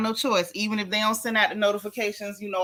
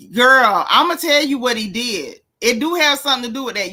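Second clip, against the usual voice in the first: excited gossip; 7 dB louder than usual. Real, not acted.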